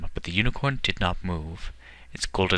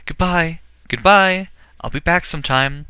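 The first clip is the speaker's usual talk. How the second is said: high, loud farewell shout from the dragon's back; boy shouting goodbye from the sky; 10 semitones higher, 5 dB louder than usual. Acted. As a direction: call down to the nurse, much higher and louder. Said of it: "waved and shouted".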